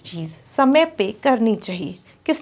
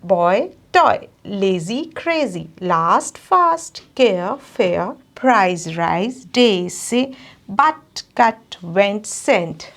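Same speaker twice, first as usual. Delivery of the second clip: rhyme drill. Shown as a demonstration. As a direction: model each rhyming word for the class to repeat. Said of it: "we will practice one more time".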